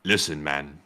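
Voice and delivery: low, slow marmot voice; put-on marmot giving orders; marmot character. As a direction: lay down the order slowly and low. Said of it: "And then the marmot said".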